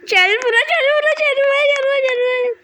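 high, urgent repeated call. Real, not acted. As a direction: shout them over to you. Calling a player over.

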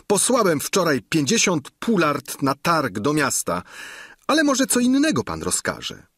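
a keen host boasting of his larder; hint of a bragging innkeeper. Innkeeper excusing himself.

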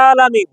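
আলামিন opened with a long throaty ain; correct ain. Shown as a demonstration. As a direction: squeeze the first vowel of আলামিন from the throat and hold it. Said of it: "বলতে হবে কি".

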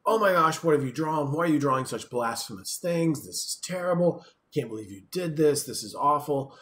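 put-on enraged parent scolding a young child over a drawing. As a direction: scold the child, shocked and angry. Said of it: "becomes immediately upset, enraged".

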